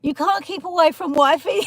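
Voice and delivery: real giggle teasing a viewer; laughing tease. Real, not acted. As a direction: tease him through a laugh.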